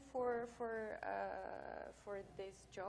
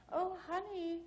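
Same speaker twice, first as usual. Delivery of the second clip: put-on sad old lady; 9 semitones higher than usual. Receptionist pities the tester's fake badge, lightly voiced old lady. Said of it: "an old lady, ... sad that I'm".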